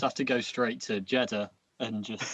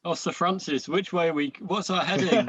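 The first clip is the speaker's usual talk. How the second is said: put-on old sea captain; 5 semitones higher than usual. Crew member hailing Sir Francis, hammed-up and higher. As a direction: call out for a heading, mock nautical. Playing sailors lost at sea.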